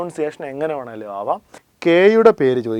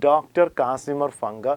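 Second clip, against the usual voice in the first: slow dictation; 4 dB quieter, much slower than usual. Shown as a demonstration. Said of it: "vitamin എന്ന പേര് ആദ്യമായി ഉപയോഗിച്ചത്".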